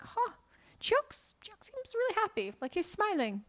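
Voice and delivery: grandfather voice. Retold or imitated.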